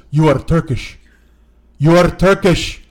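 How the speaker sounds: put-on loud, deliberate accusation in Armenian accent; accusing Armenian accent. Drunk passenger accusing his Uber driver, accusing Armenian accent.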